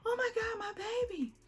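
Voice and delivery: high, loud, breaking with tears; tearful cry. Retold or imitated. Mother seeing her baby's heartbeat, crying out high and tearful.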